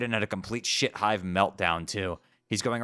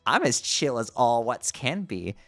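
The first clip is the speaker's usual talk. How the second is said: laid-back clown voice; 6 semitones higher, 5 dB louder than usual. Acted. Clown character voice.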